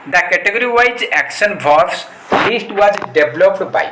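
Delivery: reads the question very slowly, word by word; slow question reading. Shown as a demonstration. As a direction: dictate the question slowly to students. Reading the exam question aloud. (ଧୀରେ ଧୀରେ ପ୍ରଶ୍ନ ପଢ଼ିବା)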